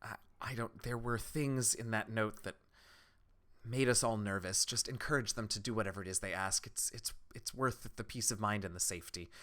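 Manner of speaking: soft, hesitant villager; uneasy villager. Acted. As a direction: speak quietly, stumbling a little over the worry. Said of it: "She says".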